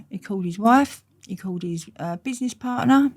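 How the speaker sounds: usual speaking voice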